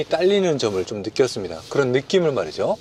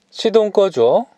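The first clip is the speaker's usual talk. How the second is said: higher, louder command to the car; talking to voice assistant; 6 semitones higher, 4 dB louder, slower than usual. Real, not acted. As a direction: call out the command clearly.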